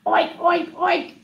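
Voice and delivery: high, short oinks; pig oinking. Acted. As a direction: oink like a pig. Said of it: "that's a pig that says".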